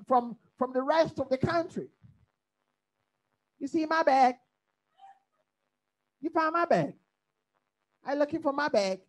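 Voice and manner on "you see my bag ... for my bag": put-on bag said as "beg" in a Saint Lucy accent; local Barbadian accent. Preacher imitating Saint Lucy locals, Barbadian accent with bag as "beg". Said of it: "they say bag".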